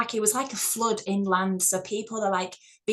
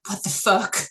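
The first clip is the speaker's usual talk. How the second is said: retold shout; 4 dB louder, faster than usual. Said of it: "I'm still shouting".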